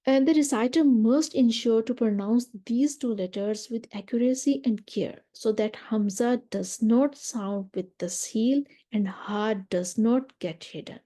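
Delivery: slow, deliberate reading of a definition; slow text reading. Acted. Teacher reads a definition to students, slowly and carefully. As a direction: read it out word by word, very slowly.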